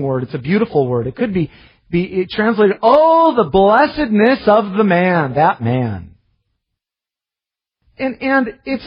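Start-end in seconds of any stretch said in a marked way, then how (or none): 2.8-6.1 exalted exclamation. Acted. Preacher voicing the psalm's opening word, exalted exclamation.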